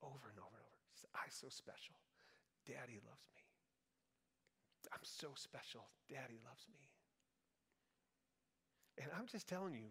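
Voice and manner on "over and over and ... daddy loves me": soft, breathy whisper, murmured. Speaker repeats what someone kept saying to himself, retelling a whisper. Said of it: "he's just like whispering".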